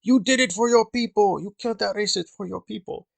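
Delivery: imitating a bitter accusation; accusing quote. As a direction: throw the blame at him. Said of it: "he says".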